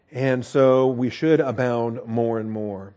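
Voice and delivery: "should" leaned on, the whole line drawn out slowly; preacher urging the flock, slowly stressing "should". Acted. Stressing "should" to the congregation, slow and deliberate. Slow emphatic sermon refrain.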